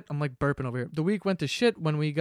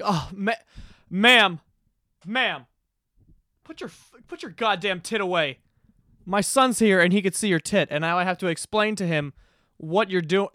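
pitched-up prissy parent scolding, with a sudden loud ma'am; mocking offended parent; 3 semitones higher, 4 dB louder than usual. Offended parent scolding a breastfeeding mother, mock outrage. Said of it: "people are offended by it".

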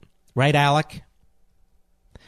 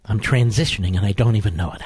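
a lightly put-on low voice; hint of a lower, mock-cool voice; mocking impersonation; 7 semitones lower than usual. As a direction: drop low and drag it out as a self-satisfied Mister Cool. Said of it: "Listen to my voice. It's even changing".

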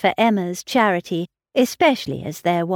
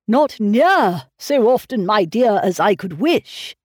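put-on plaintive old father; 2 semitones higher, 4 dB louder than usual. A narrator's reading. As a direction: whine it like a fussy old gentleman. Mr Woodhouse complaining.

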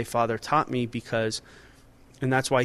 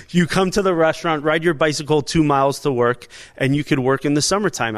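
stern-father comedy bit; 3 semitones higher, 5 dB louder than usual. Retold or imitated. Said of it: "like a Sebastian Maniscalco skit".

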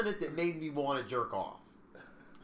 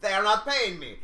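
mock French accent, a bit louder; 4 semitones higher, 5 dB louder than usual. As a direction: put on a hammy French accent. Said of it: "that was the accent that came out".

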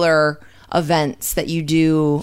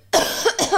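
cough on cue; 13 semitones higher than usual. Real, not acted. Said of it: "Should I do it for everyone?".

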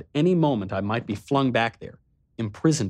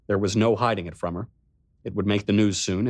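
ordinary delivery, nothing marked

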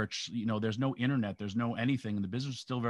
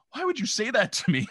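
high, louder mock-hurt whine, imitating his younger self; crushed protest; 12 semitones higher, 4 dB louder than usual. Teen asks the sleeping wrestler why, in a high hurt whine. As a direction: squeak it out like a wounded kid.

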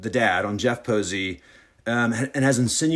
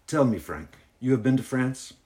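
put-on curious hostess with a light French accent. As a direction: question him in amateur French-accented English. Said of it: "this is my French accent".

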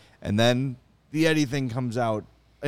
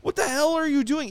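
exasperated disbelief; 12 semitones higher than usual. Retold or imitated. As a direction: squeal it like you can't believe your eyes. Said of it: "and you're just like".

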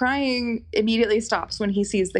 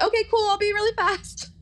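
breezy brush-off; 12 semitones higher than usual. Retold or imitated. Brushing off the shop guys.

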